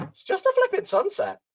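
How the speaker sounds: high, loud mocking scoff; hammed-up husband scoff; mocking dismissal. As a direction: belittle the photo.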